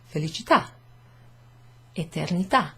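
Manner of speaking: felicità and eternità with clipped stressed final A; short final A. Shown as a demonstration. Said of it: "Clips the pronunciation down".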